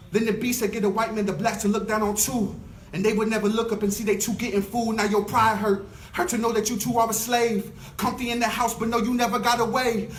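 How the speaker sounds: rhythmic, rising poetry performance; spoken word poetry. Acted. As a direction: deliver it like a slam poem. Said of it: "this poem's called I Bet You Tired".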